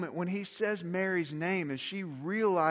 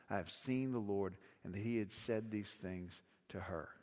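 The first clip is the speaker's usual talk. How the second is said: softer, measured reading of the gospel; scripture reading; 6 semitones lower, 9 dB quieter than usual. Acted. Pastor reads John's gospel aloud to the congregation, soft and reverent.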